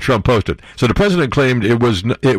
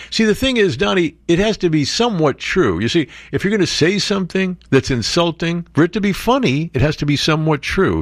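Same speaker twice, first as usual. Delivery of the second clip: higher, patient explaining; mock lecturing; 5 semitones higher than usual. Lecturing Trump jokingly.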